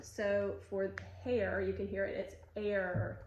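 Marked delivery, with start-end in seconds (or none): 2.6-3.2 "air" drawn out into its R; vocalic R demo. Shown as a demonstration. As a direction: stretch "air" so the final R is heard. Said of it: "a different R sound".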